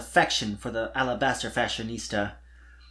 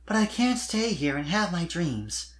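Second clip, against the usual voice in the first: explaining; 5 semitones higher than usual. Acted. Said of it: "she explained".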